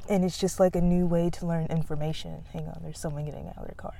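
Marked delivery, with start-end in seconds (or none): 2.5-3.9 quickly hushing so the people nearby won't hear; nervous hurried hush. Real, not acted. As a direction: drop the voice fast, quiet and quick. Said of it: "I get so nervous of people hearing me".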